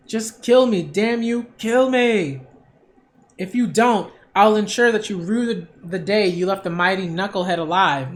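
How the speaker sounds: defiant villain voice. Acted. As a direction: spit out the threat like a beaten thug. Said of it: "why are you still talking like this?".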